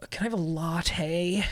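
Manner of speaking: slow imitation of a Canadian accent; mock Canadian accent order; put-on Canadian accent. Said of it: "put the accent on while I talk".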